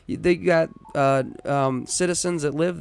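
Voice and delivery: fast, high, worked-up rant; going really crazy. Real, not acted. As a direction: let it spill out fast and high. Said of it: "now I'm about to go really crazy".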